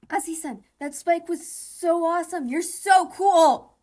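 slow, loud, gushing squeal; fangirl squeal. Real, not acted. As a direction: gush over your crush. Fangirling over a character.

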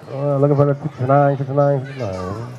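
auctioneer. Pretend. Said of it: "Talking like a auctioneer".

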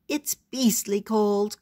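slow, lightly voiced raven caw. A narrator's reading. Raven complaining about the cold, slow cawing voice. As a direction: drag the words out like a cawing bird. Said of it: "cawed Raven".

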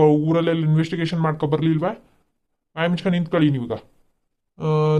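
a policeman ordering the family around; stern police officer. Acted. Police officer settling the complaint.

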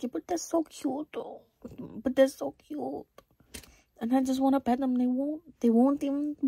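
squeaky cutesy whine, put on; baby voice. Vlogger mimicking the girlfriend pleading to pet the dogs. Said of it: "doing a baby voice".

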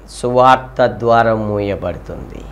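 usual speaking voice

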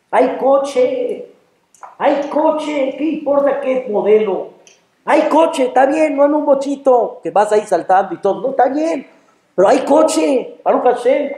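high-pitched, delighted exclaiming; exuberant gratitude. Acted. Person sitting in his car thanking God, delighted. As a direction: celebrate the plain fact joyfully.

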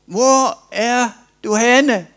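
high, loud calling across the garden; God calling out. Retold or imitated. God calling for Adam, loud and high. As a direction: call out searching and longing. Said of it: "Så han råbte".

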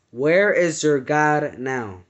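slow, lightly deepened demon voice; a hint of a menacing demon, slow; deep voice. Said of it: "he said in a very deep voice".

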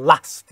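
last with a punchy short "a"; northern English "last", vowel short and hard; hammered northern A. Shown as a demonstration. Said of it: "شمال بریتانیا یه ای چکشیه".

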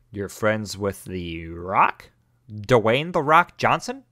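slow drawn-out sarcastic question; mocking. Real, not acted. Player mocking a kid about his rock friend. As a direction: stretch it out teasing.

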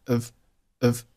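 "of" as "have" without its h; weak form. Shown as a demonstration. Teacher showing learners a weak "have", said like "of". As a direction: reduce "have" to an unstressed "of" sound. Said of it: "开头的h不发音".

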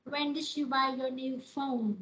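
slow question, "phone" falling at the end. Shown as a demonstration. Teacher reads an example question to class, falling tune. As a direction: model it slowly and drop on "phone". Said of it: "cái từ nó sẽ đi xuống".

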